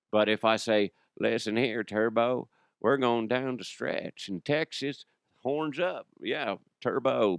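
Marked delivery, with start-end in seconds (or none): 1.2-7.4 shaky attempt at a Texan star; lightly put-on Texas accent; Matthew McConaughey. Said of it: "difficult time getting into Matthew McConaughey".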